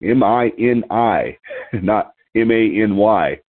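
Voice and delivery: letters M I N I spelled slowly one by one; spelling it out. Shown as a demonstration. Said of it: "the emphasis on the word mini".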